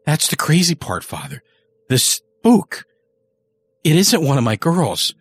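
a rough, rattled man confessing; gruff confessing killer. Acted. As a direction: spill it to the priest, uneasy. Early's confession to the priest.

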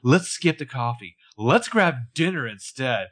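slow, deliberate mock schemer; lightly acted predator luring someone in, drawn out; vengeful scheming. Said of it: "her vengeful scheming mood".

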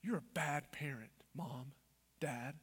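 low, hushed accusation; accusing evil whisper. Acted. Evil shaming a mom and dad, in a low whisper. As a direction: whisper the blame at them. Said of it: "See the difference?".

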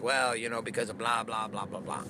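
low, fading throwaway blather; evasive mumbled excuse. Acted. Mimics evasive excuse trailing into blah.

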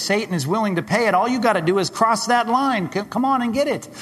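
high, loud, urgent preaching; preaching at full force. Real, not acted. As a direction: drive it home with rising urgency.

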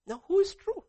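a high, loud cry to the congregation; loud challenge. Acted. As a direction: fling the question out, almost shouting. Preacher's loud rhetorical question.

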